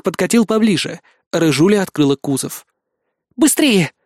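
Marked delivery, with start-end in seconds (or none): 3.4-3.9 cold. A narrator's reading. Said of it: "холодно произнесла она".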